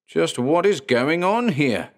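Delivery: high, slow, accusing demand; yelling. A narrator's reading. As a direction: confront him hard. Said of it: "Blue Bottle yelled at him".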